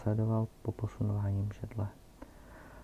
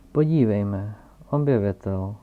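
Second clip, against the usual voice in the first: loud surprised exclamation; exclaiming; 9 dB louder than usual. A narrator's reading. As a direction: call out in delight at the visitor. (starý pán hlasitě zvolá, překvapeně a radostně)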